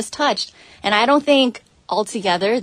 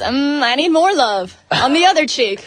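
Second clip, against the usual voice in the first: put-on imagined needy girl; 4 semitones higher, 4 dB louder than usual. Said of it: "what if she goes".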